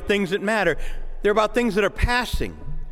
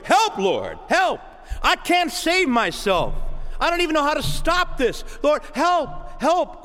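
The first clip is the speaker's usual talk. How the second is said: rising plea for help, higher; pleading prayer, pitched up; pleading cry for help; 6 semitones higher than usual. Acted. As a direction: beg for rescue.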